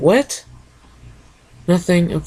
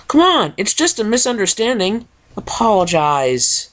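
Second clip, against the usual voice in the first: peacemaking pony; 6 semitones higher than usual. Acted. Pony voiced in story.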